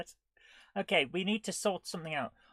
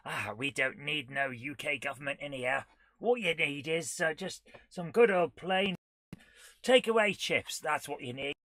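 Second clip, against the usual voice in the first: slow put-on southern English accent, wandering; wobbly mock southern English accent; unplaceable English accent; 3 dB louder than usual. Streamer joking about UK government and chips, wandering southern English accent. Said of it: "No idea what this accent is".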